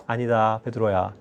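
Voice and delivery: low, soft and calm, not scolding; gentle Jesus. Retold or imitated. Jesus gently answering Peter, soft and low. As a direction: quietly reassure the disciple. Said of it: "이번엔 혼내시지 않았죠".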